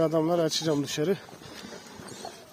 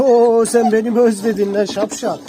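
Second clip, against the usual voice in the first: excited greeting; 4 semitones higher, 8 dB louder than usual. Real, not acted. Owner gushing over his dog that missed him. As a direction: gush over the dog, loud and fond.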